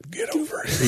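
soft mock-seductive whisper. Joking he's at the movies with his lady friend, whispered. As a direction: whisper the catchphrase softly. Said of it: "He just whispers it".

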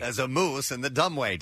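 trying a Maine accent. Shown as a demonstration. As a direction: attempt the Maine way of speaking. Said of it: "Am I saying that right?".

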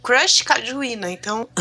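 choking mid-word, voice drops away; choking on a drink. Real, not acted. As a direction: swallow gone down the wrong way.

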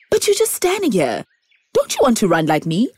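high, quick zebra voice; brisk zebra pressing the tree. Acted.

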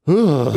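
imitated groan of disgust; short mock "ugh" from onlookers; retold collective groan. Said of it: "everybody was just like".

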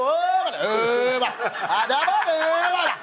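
a playful, cheeky hail between buddies; mock slangy call to the doorman; cheeky mano greeting. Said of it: "se você dá a entonação de sacanagem".

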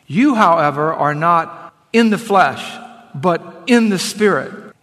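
emphatic, deliberate Bible reading; proclaiming scripture with measured pauses. Acted. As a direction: read the verse out firmly, weighting key phrases. Reads scripture aloud to congregation.

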